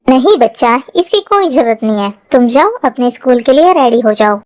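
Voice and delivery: mother fussing over her daughter, gently; mom's voice. Acted. Mom voice again, lower.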